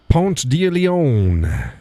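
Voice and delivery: "Ponce de Leon" very slow, "Leon" drawn out; butchered place name. Shown as a demonstration. Showing how Georgia butchers it, slow "Ponce de Leon". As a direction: stretch every word of "Ponce de Leon". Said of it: "they butchered".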